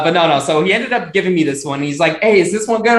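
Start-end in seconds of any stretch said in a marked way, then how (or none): 2.2-3.0 put-on Southern accent. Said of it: "my best impression".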